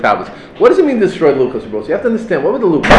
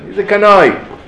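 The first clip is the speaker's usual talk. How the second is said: dismissive; 4 semitones higher than usual. Retold or imitated. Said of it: "we use it in a negative concept".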